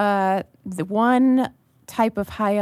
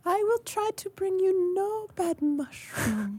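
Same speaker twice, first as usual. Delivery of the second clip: high breathy whisper in character; 11 semitones higher, 5 dB quieter, slower than usual. Acted. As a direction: hush it as the mushroom elf. Character promises softly.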